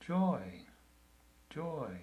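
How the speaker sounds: bright first joy, then softening; name it warmly and tenderly; kind and gentle. Shown as a demonstration. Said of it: "in a kind and gentle voice".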